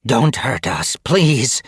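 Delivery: high, frightened plea, rising on please; cowering cat begging not to be hurt. A narrator's reading. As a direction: beg for mercy from the leader. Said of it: "she begged".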